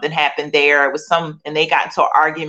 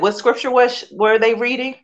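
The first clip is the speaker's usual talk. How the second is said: "What scripture was, were they reading?" asked high and pressing; retelling the urgent question put to her sister, voice pitched up; 6 semitones higher than usual. Retold or imitated. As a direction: ask it fast and urgent, voice lifted. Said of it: "And I said".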